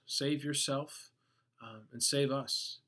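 mildly mock, drawing the words out. Retelling the criminal's words to Jesus, lightly mocking. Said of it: "mocked Jesus".

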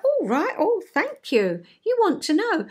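high, lilting thanks; acted pleasantly surprised acceptance of feedback; grateful reply.

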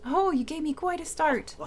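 a light Scottish lilt, startled and a bit grumpy; Scottish Scrooge voice. Acted. Gamer voicing Scrooge's startled greeting in a light Scottish accent. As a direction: play a startled old Scottish miser, lightly done. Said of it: "I definitely can't do his accent".

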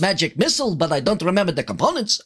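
put-on Yiddish grandfather accent. Caster can't find his spell components, fussing Yiddish grandfather accent. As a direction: fret through it in a Yiddish accent. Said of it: "I'm gonna be a Yiddish grandfather".

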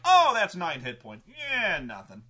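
casually dismissing big damage, then a flat "nothing"; mock shrug. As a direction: shrug it off like it's no big deal. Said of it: "you don't just go like".

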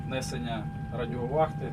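ordinary delivery

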